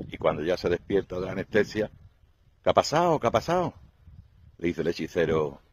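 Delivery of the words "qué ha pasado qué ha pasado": dazed confusion. Acted. Tarzan waking from anesthesia.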